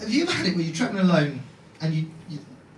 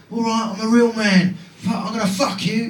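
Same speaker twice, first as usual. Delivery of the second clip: higher, cocky London hard man; London accent; 4 semitones higher than usual. Acted. London man declaring his manhood, mock-macho London accent. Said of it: "The London accent, I like it. It's like a man's accent".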